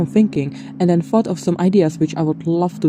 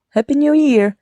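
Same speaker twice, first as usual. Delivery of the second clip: excited; 11 semitones higher, 4 dB louder than usual. Real, not acted. Cheerful greeting to viewers.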